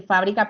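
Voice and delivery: FA of fábrica stressed; fábrica with weight on the first syllable. Shown as a demonstration. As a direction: lean on FA in fábrica. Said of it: "puedo decir fabrica o puedo decir fabrica".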